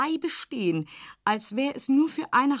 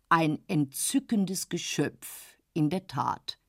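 tiefer, langsamer, schmeichelnder Herr; säusle ihr gönnerhaft Komplimente; schmeichelnder älterer Herr; 5 semitones lower, slower than usual. Acted. Dorsday spricht weiter. (Dorsday schmeichelt Else, tiefer und langsamer)

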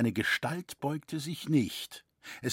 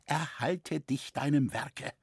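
usual speaking voice

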